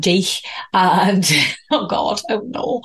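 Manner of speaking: Scouse slip with a scraped final k; Liverpool accent. Real, not acted. Host unable to stop doing it, Liverpool accent. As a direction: let the Liverpudlian pronunciation slip out. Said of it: "gonna keep doing this now".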